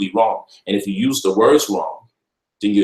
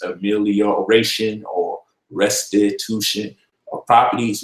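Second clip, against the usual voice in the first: slow, careful long words; slower than usual. Shown as a demonstration. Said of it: "we got amelioration and restitution of properties".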